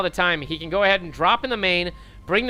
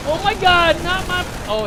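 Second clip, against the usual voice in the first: shocked; 11 semitones higher than usual. Real, not acted. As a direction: gasp in disbelief. Caster reacts to a wild play.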